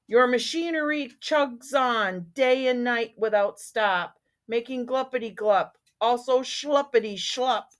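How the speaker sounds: sharp, cross little creature voice; snapping angry Lorax. Acted. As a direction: snap at him, hot-tempered. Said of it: "snapped the Lorax, his dander was up".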